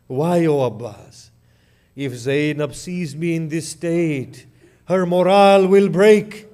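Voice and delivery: grieving elegy recited to the mourners; lamenting the fall of Abbas; mournful majlis recitation. Acted. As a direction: tell the martyrdom as a lament.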